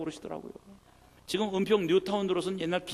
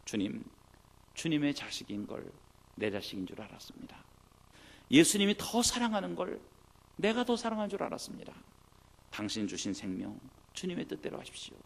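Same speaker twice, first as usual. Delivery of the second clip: repentant prayer. Retold or imitated. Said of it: "회개 기도하시더라고요".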